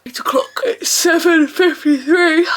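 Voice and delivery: high, slow half-laughing outcry; laughing disbelief. Real, not acted. Up before eight, laughing disbelief. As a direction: laugh at how early it is. Exasperated at early hour.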